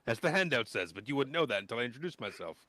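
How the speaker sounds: put-on nervous teen introducing himself; eager boy scout. GM plays the young scout Klistron.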